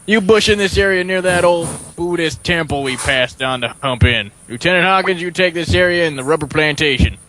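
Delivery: brief the platoon like a football coach; southern captain voice. Acted. S0 continues as Captain Harris.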